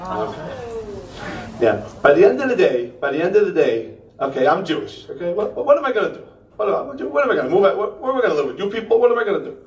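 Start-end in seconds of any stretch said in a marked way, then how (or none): 5.3-9.6 exasperated pleading. Acted. Comic pleads helplessly about being Jewish.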